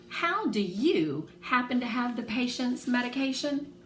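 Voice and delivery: a wary nurse quizzing a stranger; suspicious nurse. Acted. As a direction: narrow the eyes and ask it slowly. Suspicious nurse questions them.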